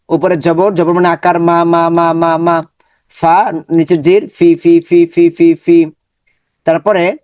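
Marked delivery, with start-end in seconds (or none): 1.4-5.8 clear, repeated Arabic syllables, each one said crisply; syllable drill. Shown as a demonstration. Teacher drills students on letter sounds, crisp repetition. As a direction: sound out তি again and again for the class. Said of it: "আমরা এইভাবে practice করবো".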